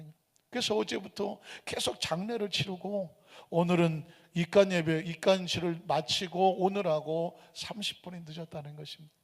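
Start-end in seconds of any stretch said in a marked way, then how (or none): none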